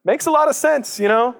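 high, sing-song mock agreement; exaggerated high voice agreeing sarcastically. Preacher mocking the critics of the older son, high and sarcastic. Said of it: "We're like".

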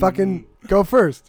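loud slow demand. Real, not acted. Telling his friend to just go first, slow loud insistence.

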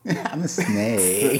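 snake voice. Retold or imitated. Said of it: "This is my impression of a gay snake".

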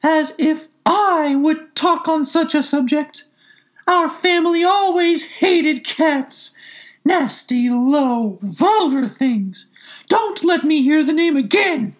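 very high, loud, drawn-out mouse squeal; indignant mouse cry. A narrator's reading. Trembling mouse rebukes Alice, indignant shrill cry. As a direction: squeal it slowly in high outrage. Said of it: "cried the mouse, who was trembling".

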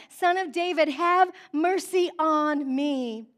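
insistent cry for mercy, slow on the last words. Acted. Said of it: "he cried out even more".

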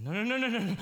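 loud, high panicked cry; terrified no. Acted. Father seeing the army come, crying out in high loud panic. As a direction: horror as danger appears.

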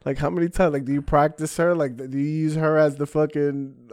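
high, loud mocking roast; roasting crowd work. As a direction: needle him hard, voice up and loud. Roasting the heckler onstage.

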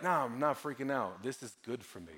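understated, low and soft retold reply; calm deacon. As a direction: voice an unruffled man, quietly. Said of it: "bizarrely calm?".

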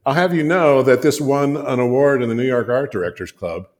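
mock-offended boast to the stranger; indignant retort. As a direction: bristle as you cite the award. Insulted designer defends his work.

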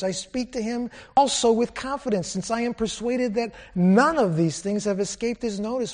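a touch of Paul's passion, lightly voiced; Paul pleading with the king, fervent; passionate defense. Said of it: "Paul's passion comes out".

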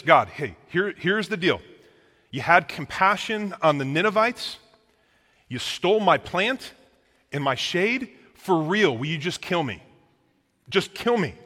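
angry Jonah. Retold or imitated. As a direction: Jonah throws his anger at God. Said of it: "next level mad right now".

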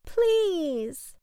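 high, loud, drawn-out plea; begging. A narrator's reading. Boy begs the cloud to stop crying, pleading. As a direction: stretch it into an acted plea. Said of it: "the little boy begged".

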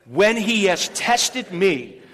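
slow, firm group recitation of the verse; leading the church in a slow spoken declaration; loud declaration. Shown as a demonstration. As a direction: declare it out like a creed. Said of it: "You're gonna say it loudly".

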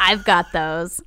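slow creepy rasp; raspy voice. Retold or imitated. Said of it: "He says in a raspy voice".

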